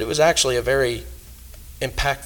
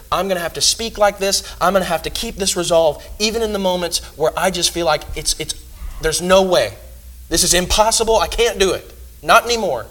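louder, rising cry of someone at the end of their rope; despairing outburst; 4 semitones higher, 3 dB louder than usual. Acted. Preacher voicing a worn-out believer who wants to give up, raised and strained. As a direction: let it build into a pained there's no way.

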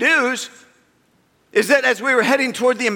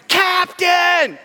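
yelled call; 8 semitones higher than usual. Retold or imitated. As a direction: shout for the captain from afar. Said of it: "echoing voice yelling".

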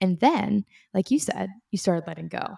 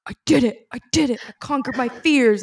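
retold joyful screaming; 5 semitones higher, 3 dB louder than usual. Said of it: "like, screaming".

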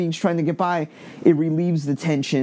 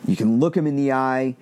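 ordinary talk, nothing marked

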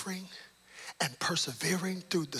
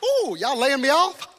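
mock delighted praise; 11 semitones higher, 11 dB louder than usual. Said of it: "You have to say".

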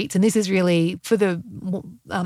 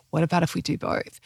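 put-on failed Irish accent; 2 semitones lower than usual. Podcaster quoting her Irishman's usual answer, weak Irish accent. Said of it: "I can't do an Irish accent".

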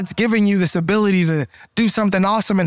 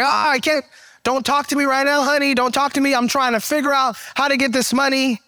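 pitched up, harried and snappish; frazzled bill payer; 4 semitones higher than usual. Retold or imitated. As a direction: brush them off while scrambling for money. Voicing someone overwhelmed by bills.

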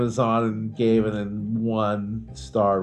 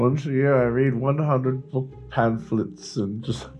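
raised, mock-refined club voice; posh reading club snob; 4 semitones higher than usual. Host mocking a snooty book club member, higher and hammed-up. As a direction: play a pompous book snob bragging.

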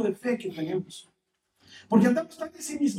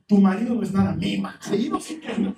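mock one-upping; 5 dB louder than usual. Friend topping the complaint.

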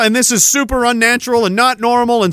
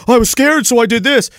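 mock justification; 2 semitones higher than usual. Speaker mimics people who excuse acting on fear, mock justifying. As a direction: imitate someone excusing themselves. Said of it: "saying it like it's a justification".

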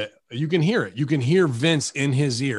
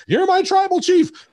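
mock tribal-chief proclamation; 7 dB louder than usual. Mimicking the tribal chief bit.

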